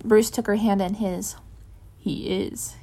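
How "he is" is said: soft, breathy, much quieter; softly. Acted. Bruce softly reassuring Cass. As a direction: barely give it voice. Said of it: "he said softly".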